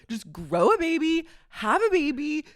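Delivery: exasperated rant. Real, not acted. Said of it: "I've had enough".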